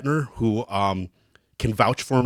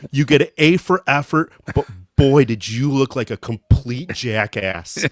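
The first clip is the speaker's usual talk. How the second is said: teasing teammates; 4 dB louder than usual. Retold or imitated. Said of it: "They go".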